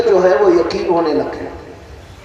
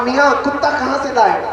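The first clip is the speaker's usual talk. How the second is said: mock innocent question; 6 semitones higher than usual. Swindler taunts goat buyer.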